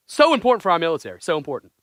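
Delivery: fast, emphatic Trump phrasing; hammed-up presidential insistence; mock Trump accent. Quoting Trump's speech to friends, mock Trump accent. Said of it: "in that accent".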